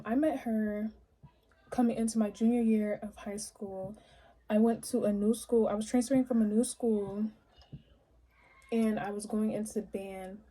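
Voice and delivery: talking while chewing gum; words round a wad of gum. Real, not acted. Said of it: "excuse my gum chewing".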